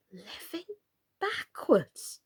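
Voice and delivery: breathless astonished whisper. A narrator's reading. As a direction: gasp the words in disbelief. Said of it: "Alice repeated in great astonishment".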